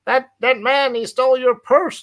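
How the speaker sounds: high, loud Glaswegian shouting after a thief; Glasgow accent. Pretend. Helping a robbed woman, loud Glasgow accent. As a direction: call out like a Glasgow polis chasing a purse thief. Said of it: "try and do your Glasgow accent".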